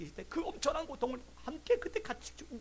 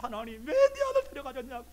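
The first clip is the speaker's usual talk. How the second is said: louder, higher imitated wail; retold wailing protest; 5 semitones higher, 7 dB louder than usual. Professor demands his son back from God, acted wailing. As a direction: cry out like a bereaved father, acted. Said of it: "대성통곡하며 울면서".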